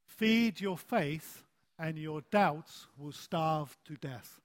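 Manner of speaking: slow, measured recitation; deliberate slogan, dropping off at the end; recited saying. Shown as a demonstration. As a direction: lead the group in saying it, slowly. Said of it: "Let's say this together".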